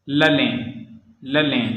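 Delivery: ललें ending on a nasal ए; French nasal IN. Shown as a demonstration. Teacher modelling an example word twice, nasal ए in ललें. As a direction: say ललें with the last vowel through the nose. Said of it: "ए जैसा होता है".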